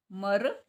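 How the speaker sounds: मर said slowly and clearly as a syllable; sounding out a syllable. Shown as a demonstration. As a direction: sound out मर for the class. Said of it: "इसमें रै की sound आ रही है".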